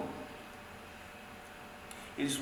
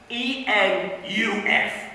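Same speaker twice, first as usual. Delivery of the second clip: slow, letter by letter; drawn-out letters, each set apart; spelling out; 3 semitones higher, much slower than usual. Acted. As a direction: spell it out one deliberate letter at a time. Spells out brother's misspelling.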